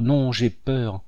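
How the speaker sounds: running away, fear fading out; fading fright. A narrator's reading. Minette still fleeing, repeating herself fearfully. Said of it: "en répétant".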